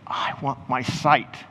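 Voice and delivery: slow, drawn-out plea; slow declaration. Acted. Blind man answering Jesus, slow deliberate plea. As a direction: state the wish slowly, each word weighted. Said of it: "but you say".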